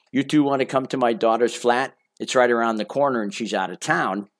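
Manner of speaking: lightly voiced older Parisian lady in a French accent; a hint of a French accent, inviting. Older Parisian lady invites the couple up, in a light French accent. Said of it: "in her very French accent".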